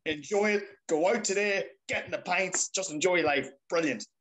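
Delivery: re-enacted euphoria, urging everyone on; elated. Fan re-enacting his video after the league title win, elated.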